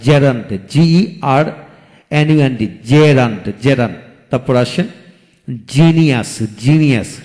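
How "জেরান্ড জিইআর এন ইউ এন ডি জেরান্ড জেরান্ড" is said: slow spelling demo. Shown as a demonstration. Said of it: "যেমন জিরান্ড".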